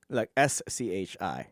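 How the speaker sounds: slow "S C H I", letters one by one; spelling out letters. Shown as a demonstration. Vlogger spelling the word ending for viewers, slowly. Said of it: "It's B".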